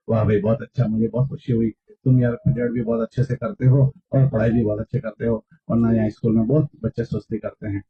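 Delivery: low, soft encouraging pat on the back; friendly praise. Shown as a demonstration. Mentor showing students how to praise a diligent child, softly encouraging. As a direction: praise him gently, like a friend. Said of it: "اس کی شاباشی دو".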